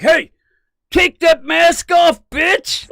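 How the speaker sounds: high, loud mock yell, take that mask off dragged slow; hammed-up villain shouting at Jesse, pitch way up. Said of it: "starts yelling at Jesse".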